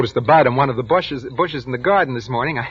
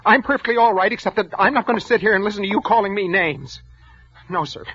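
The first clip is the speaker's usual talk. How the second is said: angry warning; 6 semitones higher than usual. Acted. Clerk threatens his boss.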